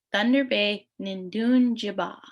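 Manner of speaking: teacher modelling Nindun Jiba syllable by syllable; careful Ojibwe pronunciation. Shown as a demonstration. Teacher models the phrase for students, carefully. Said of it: "the full, uh, pronunciation is".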